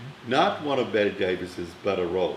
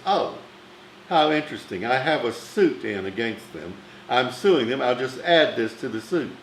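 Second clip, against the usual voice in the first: sarcastic Bette Davis. Retold or imitated. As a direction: imitate a diva's icy sarcasm.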